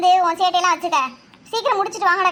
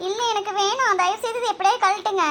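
high, distressed begging; tearful pleading; 4 semitones higher than usual. Acted. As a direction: beg anxiously for help. Panicked girl begs for ring removal. (பதற்றத்துடன் கெஞ்சும் உயர்ந்த குரல்)

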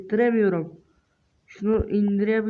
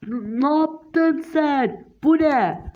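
startled; 5 semitones higher, much slower than usual. Acted. Startled by something in game.

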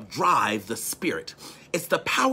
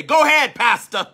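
high, loud go-ahead; congregant call-out; 8 semitones higher, 4 dB louder than usual. Retold or imitated. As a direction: urge the pastor on. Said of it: "They might say".

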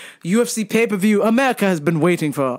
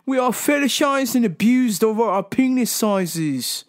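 lightly voiced self-pitying men, a touch higher; mock whiny lament; 4 semitones higher than usual. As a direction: ham up a mild woe-is-me moan. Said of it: "They say".

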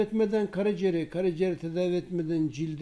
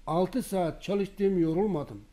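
slow emphatic quote; much slower than usual. Retold or imitated. Repeats patient's words slowly.

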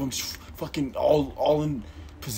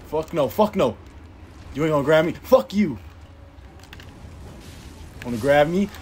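defiant yelling; 4 semitones higher, 6 dB louder than usual. Real, not acted. Fighting off grab attack.

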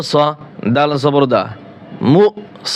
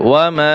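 "ওয়া মা" with a long, level stretch on মা; three-alif stretch. Shown as a demonstration. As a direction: hold the vowel of মা in "ওয়া মা" long. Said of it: "তিন আলিফ টান হবে".

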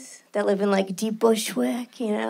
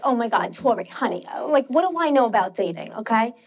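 Jewish New York mom. Retold or imitated. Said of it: "She'll always be like".

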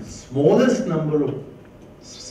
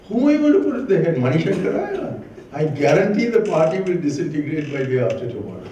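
rhetorical challenge; 4 semitones higher, 4 dB louder than usual. Retold or imitated. Retold challenge, rising.

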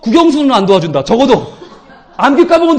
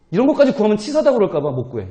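ordinary talk

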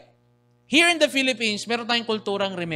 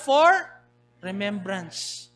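a slow, deliberate answer to the congregation; drawn-out answer; much slower than usual. Shown as a demonstration. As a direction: draw out the word remembrance slowly for emphasis. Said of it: "You take that souvenir for what?".

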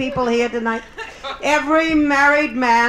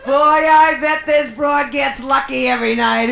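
imagined audience thought; 4 dB louder, slower than usual. Retold or imitated. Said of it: "they think".

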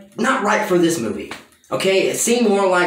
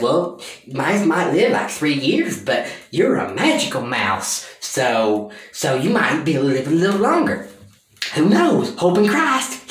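mock grandmother. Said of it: "the grandmother says".

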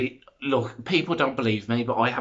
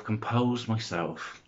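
slow calming breath; 5 dB quieter, slower than usual. Real, not acted. Vlogger out of breath, calming herself down slowly. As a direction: talk yourself calm, slow and quiet. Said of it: "now I'm out of breath".

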